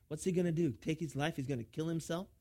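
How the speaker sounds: lightly mocking questions; sarcastic. Preacher imitates the crowd doubting Jesus, mildly sarcastic. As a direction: toss out the questions with a touch of sarcasm. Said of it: "in a very sarcastic way".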